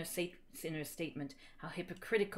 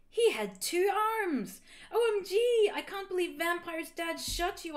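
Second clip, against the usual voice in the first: high, loud hammed-up shock; gasped; 11 semitones higher, 5 dB louder than usual. A narrator's reading. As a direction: exclaim in melodramatic disbelief. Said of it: "I gasped".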